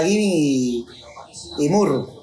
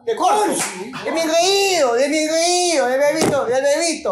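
excited teasing; 8 semitones higher than usual. Real, not acted. Celebrating, teasing chant.

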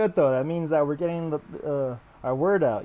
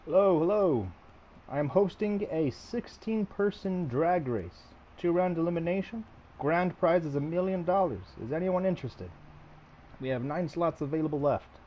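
booming prize announcer; 3 semitones higher than usual. Acted. Again hosting drag race to lobby.

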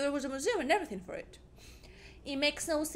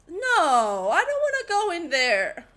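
high, loud laugh-crying protest; scared giggly refusal; laughing fearful protest; 4 semitones higher, 7 dB louder, slower than usual. Real, not acted. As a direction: whine and laugh through fear. Scared of entering.

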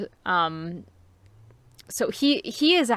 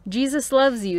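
flat mocking; 5 semitones higher, 5 dB louder than usual. A narrator's reading. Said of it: "in a flat, mocking voice".

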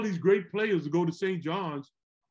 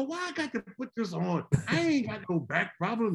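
lightly voiced complaining Southern father; Southern dad voice; 4 semitones higher than usual. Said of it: "He's from the South".

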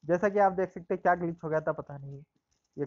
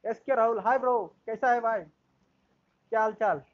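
excited greeting; 5 semitones higher, 5 dB louder than usual. Real, not acted. Streamer greeting a viewer loudly.

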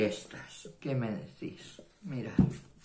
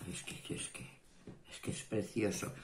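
breathless awe; 10 dB quieter, faster than usual. Real, not acted. Awed by pretty paper.

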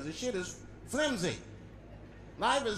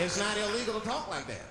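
lightly voiced old-movie gangster; a hint of gangster bravado; forties bad guy; 3 semitones higher than usual. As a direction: protest like a forties mobster. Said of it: "that's how bad guys used to talk".

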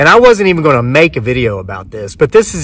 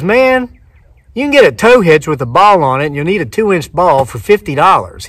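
high start on a retold protest; mild exasperation; 3 semitones higher than usual. Clerk explains hitch price to suspicious winner, mildly exasperated. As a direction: reason with a doubter, mildly exasperated.

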